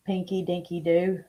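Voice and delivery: whispering the nickname, voiceless; playful whisper. Real, not acted. Whispering a playful nickname to a viewer. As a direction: breathe it out like a secret.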